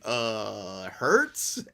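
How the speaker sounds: lightly mocked fan groping for names; casual football fan. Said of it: "Just casual football fan".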